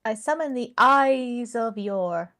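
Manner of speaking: slow, grand spell-casting line; mock summoning incantation. Co-host reading a title, slow mock spell. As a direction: intone it like casting an attack spell. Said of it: "sounds like something of, like, a weird sort of an attack".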